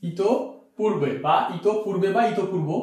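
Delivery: ইতপূর্বে said very slowly, syllable by syllable, repeated; ইতপূর্বে read out slowly and carefully; slow model reading. Shown as a demonstration. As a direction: drag out each syllable of ইতপূর্বে like dictation. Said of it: "দেখা যাক ইতপূর্ব".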